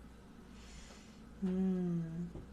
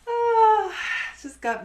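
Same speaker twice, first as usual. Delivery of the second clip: laughing; 10 dB louder, slower than usual. Real, not acted. Recovering from giggle.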